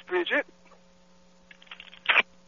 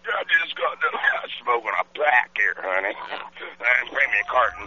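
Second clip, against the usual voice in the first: put-on old smoker voice. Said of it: "You sound like a nasty-ass smoker guy".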